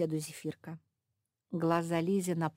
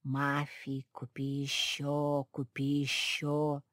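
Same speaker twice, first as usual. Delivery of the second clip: slow, coaxing voice in her head; lower, drawn-out whispering temptation; ringing inner voice; 4 semitones lower, slower than usual. A narrator's reading. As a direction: tempt her slowly, like a voice inside the ear. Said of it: "Голос звенит в ушах".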